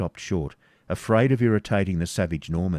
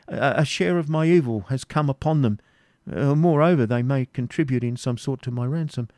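higher, stammering plea; pleading Isaac; 7 semitones higher than usual. Acted. Isaac pleading for his travelling companions. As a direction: beg for the companions.

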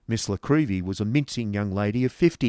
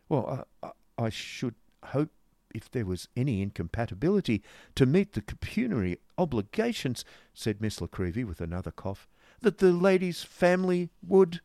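flustered stammer; 5 semitones higher than usual. Acted.

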